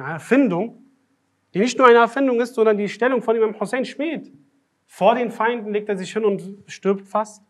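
indignant condemnation. Real, not acted. Preacher condemning the invented story to listeners, indignant and loud. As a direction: denounce it with rising anger.

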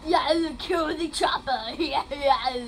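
put-on game villain character; terrorizer voice. Gamer greeting viewers as the terrorizer, villain voice. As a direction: play the terrorizer greeting his fans. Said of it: "I'm the terrorizer".

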